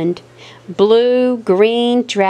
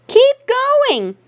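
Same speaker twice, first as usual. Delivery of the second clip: excited encouragement. A narrator's reading. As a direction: cheer her on from the bank. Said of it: "cried Mama".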